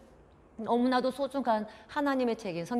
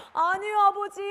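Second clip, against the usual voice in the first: high, loud wail; pleading child; 11 semitones higher, 6 dB louder than usual. Acted. Son contradicting his angry father, wailing plea. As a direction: protest plaintively to a parent.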